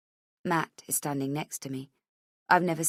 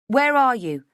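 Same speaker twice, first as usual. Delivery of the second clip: demanding; 6 semitones higher, 7 dB louder than usual. A narrator's reading. Mother demands.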